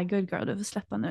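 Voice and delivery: soft, hushed retelling of his whisper; quietly imitating him whispering in her ear; retold whisper. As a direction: murmur it low like a secret in her ear. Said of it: "så viskade han typ så här".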